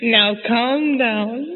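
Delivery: slow, drawn-out soothing words; lightly acted father calming his wife; Papa calming Mama. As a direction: stretch it out to settle her down. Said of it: "What's he saying?".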